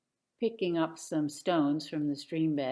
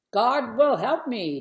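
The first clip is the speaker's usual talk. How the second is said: put-on confident boy; 6 semitones higher, 9 dB louder than usual. A narrator's reading. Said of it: "David said".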